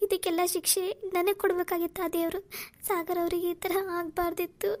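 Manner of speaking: tearful despair. Acted. Alone in temple, weeping over Sagar.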